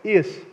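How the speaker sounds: "is" stressed and set apart; "is" said as the key word. Shown as a demonstration. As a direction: hit the word "is". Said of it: "Notice the next word".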